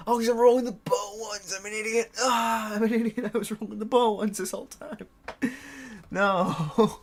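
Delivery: high, loud, breaking with laughter; laughing at himself. Real, not acted. Player realises he rolled the wrong dice, laughing. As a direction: crack up at your own blunder.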